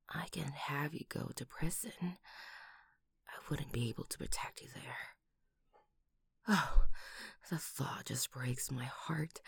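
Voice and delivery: soft worried whisper; quiet aching whisper; tender whisper. Acted. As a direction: hush it close to the ear. Comforting partner about prison.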